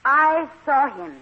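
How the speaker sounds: put-on French accent, drawn out; phony French accent. French guest tells the boarders she saw the murderer, phony French accent. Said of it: "My phony French accent".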